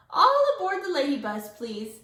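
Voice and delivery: bus driver call. A narrator's reading. Teacher calls like bus driver.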